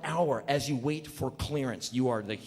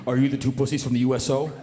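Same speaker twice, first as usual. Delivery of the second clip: fast louder demanding question; mock gruff soldier; 3 semitones lower, 4 dB louder, faster than usual. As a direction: confront the newcomers. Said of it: "reps who go".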